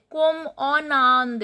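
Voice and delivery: N of "en" sounded into "Inde"; liaison on en Inde. Shown as a demonstration. French teacher showing learners where liaison takes place, linked N in "en Inde". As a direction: link "en Inde" with a spoken N. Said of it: "N is pronounced because the next".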